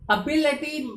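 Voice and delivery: एबिलिटी said slowly and clearly, stress on the second syllable; teacher models एबिलिटी as ए-बि-लि-टी; correct pronunciation. Shown as a demonstration. Teacher shows students the real sound of the word, clear and careful. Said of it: "उस word का actual pronunciation".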